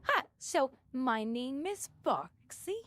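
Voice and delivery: slow, drawn-out "Hi, so my name is Foxy" like an internet vlogger; imitating Boxxy lightly. Player mimics the Boxxy vlog, slow and mild. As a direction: stretch the "Hi" out slowly. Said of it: "You know what that reminds me of?".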